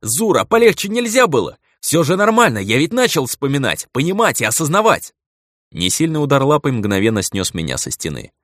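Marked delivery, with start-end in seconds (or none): 0.0-5.1 high, louder aggrieved complaint; high-pitched outraged protest; indignant protest. Acted. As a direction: protest hotly through the pain. Protesting after being wounded.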